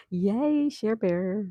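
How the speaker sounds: bright high yay for a friend; excited cheer. Real, not acted. Host cheering a viewer about the warm weather, excited. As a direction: cheer her on, pitch jumping up.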